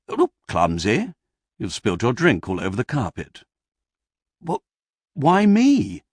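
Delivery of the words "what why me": croaked. A narrator's reading. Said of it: "Croaked Crucible".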